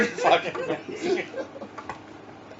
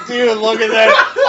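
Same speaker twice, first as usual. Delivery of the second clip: laughing quote; 4 semitones higher, 5 dB louder, slower than usual. Retold or imitated. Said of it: "he's standing up on the porch going".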